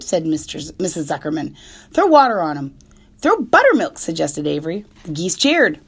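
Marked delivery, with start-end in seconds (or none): 1.9-4.0 loud, higher excited calls; urgent shouts. Acted. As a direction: shout the fix. Panicked shouted suggestions.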